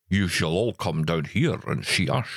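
a light, slowed-down Scottish film-star voice, only a little off his own; Sean Connery impression. Hosts riffing on Bond films, lightly voiced Connery. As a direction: borrow a famous Scot's unhurried delivery. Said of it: "Oh, that was pretty good".

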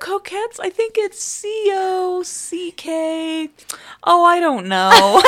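high, laughing replay of her own fumble; laughing retelling. Retold or imitated. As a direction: giggle through the spelling, dragging it out. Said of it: "Dude, I was like".

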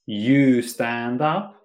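slow, full sentence with you; full form, slow. Shown as a demonstration. Teacher contrasting full sentence, said slowly. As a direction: spell out you stand up slowly. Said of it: "Instead of saying".

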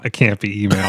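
sudden shout of realization; excited exclamation. Real, not acted. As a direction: burst it out in disbelief. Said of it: "Ah, no, it can't be email".

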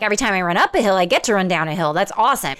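cheerful, glass-half-full take on the hill line; upbeat optimist. Retold or imitated. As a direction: say it like the downhill is a gift. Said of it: "I'm like".

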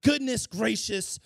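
slow, overly gentle prince voice; drawn-out syrupy concern, hammed up; mock prince. Prince mocked for fussing over a naked stranger, syrupy. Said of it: "he's like".

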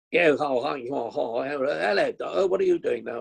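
high mock luvvie babble; hammed-up actorly hellos, pitched high; gushing actors' chatter. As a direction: imitate a party full of actors. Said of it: "The room was full of actors".

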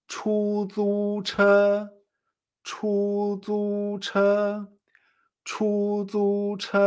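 CHUZUCHE en tres sílabas agudas, planas y largas; como un robot. Shown as a demonstration. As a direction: repite CHUZUCHE monótono, sin mover el tono. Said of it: "¿No te parece que somos como un robot?". («chuzuche» con entonación de robot, sostenida)

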